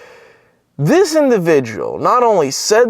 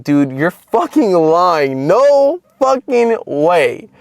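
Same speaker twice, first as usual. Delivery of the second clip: drawn-out, rising "no way" of disbelief; retold disbelief; 4 semitones higher, much slower than usual. Telling his brother he must be lying, incredulous. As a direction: stretch it out high, in sheer disbelief.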